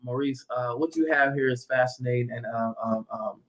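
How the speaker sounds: a hint of Obama pausing as he thinks; lightly imitating a president's careful halting speech; halting Obama impression. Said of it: "that's how he talk".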